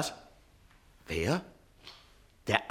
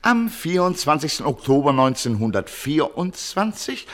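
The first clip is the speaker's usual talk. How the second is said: dictating; 4 semitones lower than usual. Acted. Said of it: "bitte schreiben Sie".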